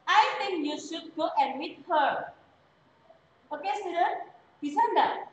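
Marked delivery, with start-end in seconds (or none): 0.1-2.3 slow, careful sentence ending on a clear "her"; slow model reading. Shown as a demonstration. Teacher models the full sentence slowly for students. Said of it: "tapi her".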